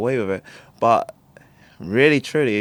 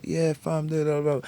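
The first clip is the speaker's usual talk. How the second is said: higher-pitched, lightly imitated slang banter; mock slang talker; 6 semitones higher than usual. Imitating schoolmates who all talked slang, mildly mocking. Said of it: "I didn't used to talk much slang".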